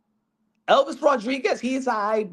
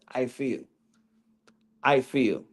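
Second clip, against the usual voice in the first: a hint of Usyk's lower, halting accent; imitating Usyk; 7 semitones lower, slower than usual. Vlogger imitating Usyk's catchphrase, lightly voiced lower. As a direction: drop lower and say it like Usyk, mildly. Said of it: "That's all he says".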